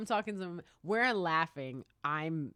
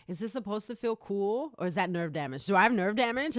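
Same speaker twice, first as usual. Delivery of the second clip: mild panic, climbing higher and louder; retold alarm; 4 semitones higher, 5 dB louder than usual. Patient asking nurse about nerve damage, rising worry. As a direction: build the questions toward alarm, re-enacted.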